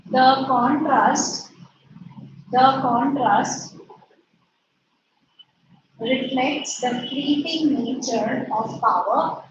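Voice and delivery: "the contrast" spaced out slowly; slow dictation. Shown as a demonstration. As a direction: dictate "the contrast" slowly so they can write. Dictating to class.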